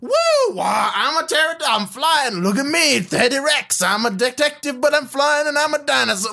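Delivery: mocking a hyper motormouth, slightly high; nonstop noisy chatter. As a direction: babble excitedly without ever stopping. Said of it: "through that whole scene, he's just".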